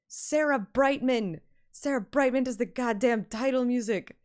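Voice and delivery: thrilled soundtrack gush; excited gushing. Real, not acted. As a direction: rave about the composer.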